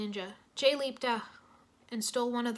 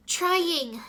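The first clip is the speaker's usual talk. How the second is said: strained gasp; 7 semitones higher, 8 dB louder than usual. Acted. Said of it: "she gasped".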